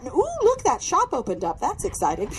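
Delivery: sudden high delighted ooh, then a laugh; distracted inner chatter. Praying in your head, suddenly delighted by a new shop. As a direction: get sidetracked mid-prayer with glee. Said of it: "In your head, you're like".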